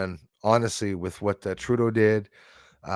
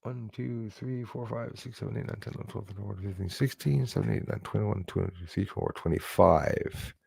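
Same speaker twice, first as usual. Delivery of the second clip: very soft, under-the-breath counting; counting to oneself; 2 semitones lower, 10 dB quieter, faster than usual. Real, not acted. Streamer tallies incoming emails to himself, counting under the breath.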